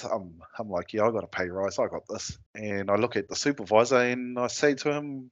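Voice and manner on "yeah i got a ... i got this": understated swagger, a little lowered; retold cockiness. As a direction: play back your old cocky self, low-key. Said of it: "I'm cocky as".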